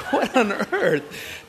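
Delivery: high, loud, drawn-out exclamation; mock disbelief. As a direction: exclaim in exaggerated exasperation over laughter. Mortified dad reacting amid laughter.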